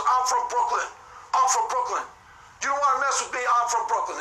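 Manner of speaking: imitating a puffed-up tough guy; mock bravado. Frat guy confronting a stranger at a party, mock bravado. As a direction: act tough, lightly puffing yourself up. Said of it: "that's bravado right there".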